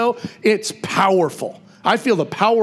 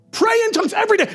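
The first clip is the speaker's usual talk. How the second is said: high, fast rallying call; quick, high-pitched cheerleading; rousing exhortation; faster than usual. Real, not acted. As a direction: urge the crowd on, pitched way up. Exhorting the congregation, repeated urging.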